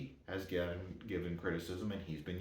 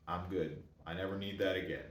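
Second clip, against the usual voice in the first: soft, quick, gentle refusal; a mild, understated gentle no; gently; 3 semitones lower, 5 dB quieter than usual. Retold or imitated. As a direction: let him down easy, a little softer. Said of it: "he said it very, very gently".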